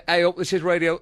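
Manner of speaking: put-on a light Yorkshire accent for "Hey up, this is Radio", still close to his own voice; a half-hearted, tentative go at a northern accent; Yorkshire accent impression. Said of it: "Shall I attempt the accent?".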